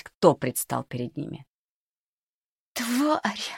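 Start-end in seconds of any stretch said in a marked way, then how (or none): 2.7-3.5 much higher, choked with hate; strangled hiss. Acted. Varvara recognizes the cook, strangled hateful cry. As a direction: spit the word out through a tight throat. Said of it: "сдавленно прошипела Варвара".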